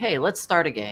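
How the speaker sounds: plain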